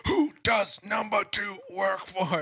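high, loud, slow Austin Powers voice; Austin Powers impression. Host imitating Austin Powers fighting the guard, straining. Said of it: "Austin Powers is going".

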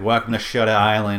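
light Boston accent, imitating the guard; a touch of thick Boston. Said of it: "thick Boston accent".

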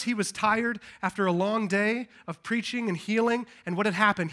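ordinary talk

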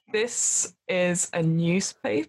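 slow, lightly voiced library patron; guy in the library. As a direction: say it slowly as a mildly baffled stranger. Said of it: "The guy sort of goes".

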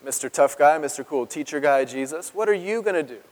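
mock-taunt with weight on "you"; accusers' mild sarcastic dare; taunting challenge. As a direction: needle him, leaning on "you". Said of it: "you" should be italicized there".

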